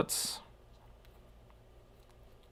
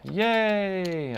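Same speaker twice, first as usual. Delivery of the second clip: high, delighted yay; excited cheer; 9 semitones higher than usual. Real, not acted. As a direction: cheer it out with joy. Device test finally works.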